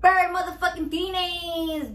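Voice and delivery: loud, slow, hyped-up opening call; hyped intro shout. Acted. Opening her cooking vlog to viewers, loud and hyped. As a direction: announce the show like a hype host.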